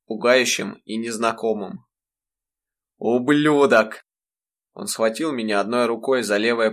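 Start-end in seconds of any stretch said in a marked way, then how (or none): 3.0-4.0 slow, drawn-out louder curse; the father's enraged bellow at his son; furious bellow. Acted. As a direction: spit the insult out in rage.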